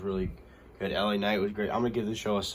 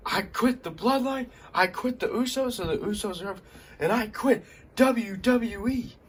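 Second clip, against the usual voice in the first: defiant quitting shout; 12 semitones higher, 4 dB louder than usual. Retold or imitated. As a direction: announce it to the camera like a farewell. Wrestler quits on camera.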